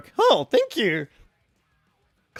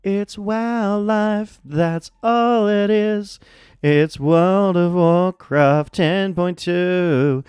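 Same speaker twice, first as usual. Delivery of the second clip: announcer voice; 4 semitones higher, 4 dB louder, much slower than usual. Acted. Hyping the expansion title.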